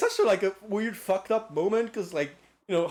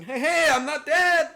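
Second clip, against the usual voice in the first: mock triumphant yell; 11 semitones higher, 8 dB louder than usual. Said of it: "He's like".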